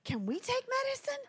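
put-on high, quick child voice; high-pitched pleading little-kid question; eager kids. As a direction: imitate children begging for a treat. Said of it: "my kids were like".

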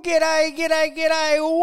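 loud high repeated g'days; bursting in with cheery greetings; excited greeting. Acted.

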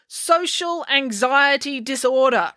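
high and slow, spelling it out; slow repeat. A narrator's reading. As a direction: repeat each word slowly as if to a fool. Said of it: "repeated April".

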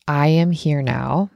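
slow, measured mantra; breathing affirmation. Shown as a demonstration. Coach showing listeners what to think while breathing in, measured affirmation. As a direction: demonstrate an inhale mantra, word by word. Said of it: "you breathe in through your nose and you think".

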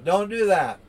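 lightly acted plea, high and loud; protesting middle goat.

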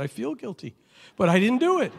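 put-on high pleading little-boy voice; pleading child. Schoolboy pleading innocence to the nun, high and whiny. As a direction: squeak it out like a caught kid.

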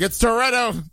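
lightly voiced gruff Toretto line; a hint of Dom Toretto. Host voicing Toretto to Brian, mock tough. Vin Diesel impression in parody pitch.

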